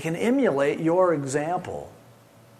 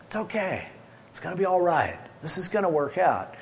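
reassuring; 3 semitones higher, 4 dB quieter than usual. Acted. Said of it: "the role of God to go".

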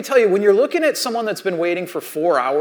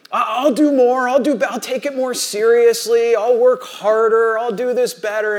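higher-pitched, insistent bargaining; mock pleading; 4 semitones higher than usual. Fired employee bargaining with boss, mock pleading. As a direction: act out begging, piling up promises. Acted begging to keep the job.

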